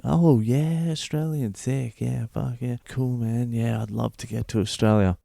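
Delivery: high, gushing mock foreigner enthusiasm; excited foreigners. Locals gushing over an Australian traveller, high and excited. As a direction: gush like a starstruck local hearing Australia. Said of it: "everyone would be like".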